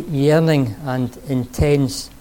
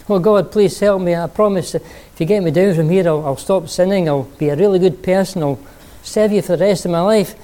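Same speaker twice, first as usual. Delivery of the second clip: desperate pleading; 5 semitones higher, 4 dB louder than usual. Acted. Jack begging for rescue.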